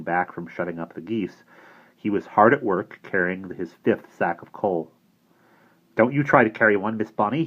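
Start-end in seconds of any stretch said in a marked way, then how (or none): 5.9-7.4 horrified. Acted. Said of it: "he said with horror".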